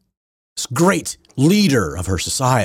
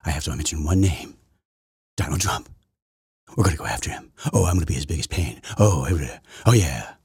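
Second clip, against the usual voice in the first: mock boast; 5 semitones lower, 4 dB quieter than usual. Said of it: "her flat out first reason".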